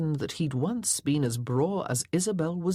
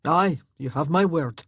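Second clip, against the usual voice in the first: louder laird's voice; 5 dB louder than usual. Acted. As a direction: give his word. Laird reassures son.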